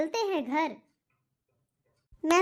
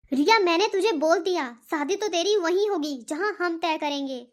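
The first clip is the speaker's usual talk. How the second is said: firm, raised scolding voice; stern scolding. Acted. Parent scolds Riya over the marriage, stern and raised. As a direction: lay down the law.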